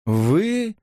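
high, slow disbelieving question; incredulous. A narrator's reading. Elisa doubts Robert's prayers, slow and incredulous. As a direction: drag it out in disbelief. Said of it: "недоверчиво переспросила она".

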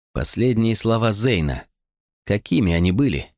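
plain reading voice

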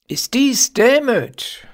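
high, slow incredulous question; astonished cry. A narrator's reading. Shepherd discovers his rival is a child, astonished. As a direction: exclaim in drawn-out amazement, pitched well up. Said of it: "rief ich erstaunt".

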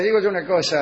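put-on broken Spanish in a light Russian accent. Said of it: "con el acento ruso".

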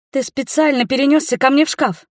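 put-on high, rapid girlish chatter; girl rattling on excitedly to the man she likes. A narrator's reading. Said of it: "затараторила Рика".

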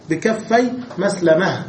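مسلمة ending in a clear t; نطق مسلمة بالتاء في آخرها مع الوقف; pausal taa. Shown as a demonstration. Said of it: "فوقف بالتاء فقال". (الوقف على مسلمة بالتاء)

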